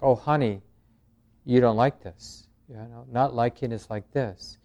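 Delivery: kindly saying "Oh, honey" to your own mind; with compassion. Shown as a demonstration. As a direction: soothe yourself like a dear friend. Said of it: "With compassion".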